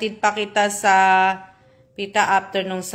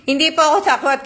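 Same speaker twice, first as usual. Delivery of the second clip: laughing while saying it, a bit higher and faster; laughing denial; 5 semitones higher, 3 dB louder, faster than usual. Real, not acted. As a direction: laugh through the words, brushing off the fear. Laughing denial of being afraid. (tumatawang pagtanggi)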